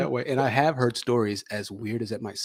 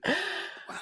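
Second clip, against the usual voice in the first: a high, amazed wow; surprised wow; 6 dB quieter than usual. Real, not acted. Host amazed that the guest has seven siblings, high surprised wow. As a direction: let the wow jump way up in surprise.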